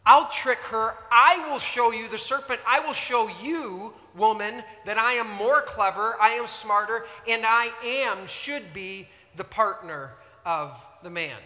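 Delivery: a hint of a cocky tempter; scheming serpent. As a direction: brag like a sly serpent plotting. Preacher voicing the scheming serpent.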